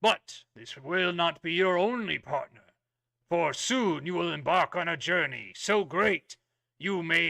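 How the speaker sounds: a hint of a stern royal knight; booming warrior king. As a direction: address recruits with solemn authority. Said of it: "very kind of stern royal voice".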